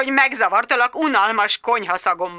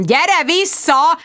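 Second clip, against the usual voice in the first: high raised call; mock shout; 8 semitones higher, 3 dB louder, much slower than usual. Bridget shouting down the phone, raised. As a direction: call her back sharply. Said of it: "ordítottam".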